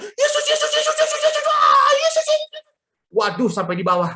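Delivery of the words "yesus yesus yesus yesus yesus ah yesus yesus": extremely high, frantic mock shrieks; imitated screaming. Imitating mother as the coaster plunges, mock screaming. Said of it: "dia teriak dengan kencang".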